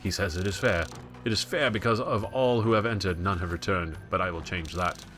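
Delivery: put-on dramatic, vaguely European British accent; lightly put-on British-ish period-drama voice. Gamer reading a knight's tale aloud, dramatic British-ish accent. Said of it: "say that in anything but an American accent".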